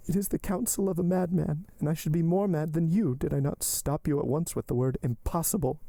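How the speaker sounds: high-pitched heroine, emphatic objection; Valentine, firm refusal. Acted. Valentine rejecting the madman's counsel, firm. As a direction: refuse him firmly in a high voice.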